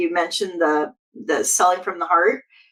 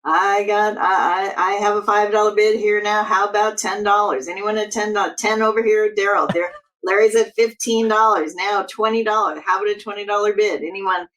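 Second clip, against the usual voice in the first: fast auctioneer bid calling. Pretend. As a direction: rattle off bids like an auction. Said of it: "give us thirty seconds of fast auctioneer talk".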